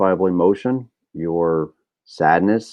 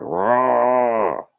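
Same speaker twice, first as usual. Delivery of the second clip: mock angry roar; 5 semitones higher than usual. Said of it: "It burps out, it comes out".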